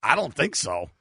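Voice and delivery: put-on playful French-accented reply; coy mock French accent. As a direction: answer in a light French accent. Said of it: "speak in an accent".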